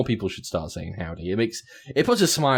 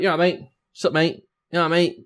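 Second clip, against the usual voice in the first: higher, chummy mate greetings; chirpy mate greeting; 7 semitones higher, faster than usual. Retold or imitated. Greeting coworkers as they walk in, chirpy and chummy. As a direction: sing out each mate greeting. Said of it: "I'd be like".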